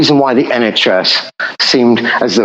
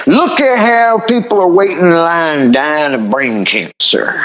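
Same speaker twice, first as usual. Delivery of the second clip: mock American politician; 4 semitones higher than usual. Parodying American right-wing politician.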